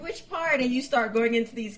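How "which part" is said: bright, much higher eager question; curious asker. Retold or imitated. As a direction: ask it like you're suddenly intrigued. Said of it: "And they're like".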